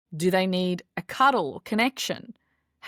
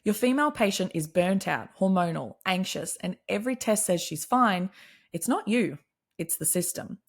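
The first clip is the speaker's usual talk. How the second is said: lightly polished promo read; upbeat sponsor read for a training program. Acted. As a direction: pitch the course to practitioners.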